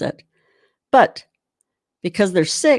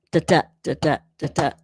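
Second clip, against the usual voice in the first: drum syllables; 2 semitones lower, faster than usual. Shown as a demonstration. Drum teacher vocalizing the sticking pattern for students, steady syllables. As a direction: sing the sticking as da da da. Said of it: "you can still hear the emphasis".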